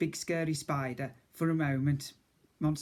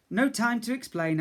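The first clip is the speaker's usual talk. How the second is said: put-on breathless boy, higher; puffed reply; 7 semitones higher, 4 dB louder than usual. A narrator's reading. Boy answers the cook, out of breath. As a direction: gasp it out on the run. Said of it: "I puffed".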